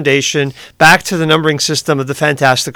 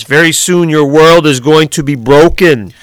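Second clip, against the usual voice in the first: put-on slow, Austrian accent, menacing villain; menacing Austrian accent line. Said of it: "I said that with an Austrian accent".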